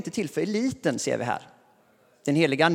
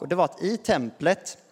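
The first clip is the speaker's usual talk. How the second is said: ordinary talk, nothing marked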